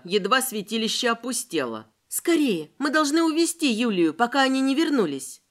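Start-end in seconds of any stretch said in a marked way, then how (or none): 2.1-5.4 urgent plea. Acted. Veronika urges rescuing Yulia.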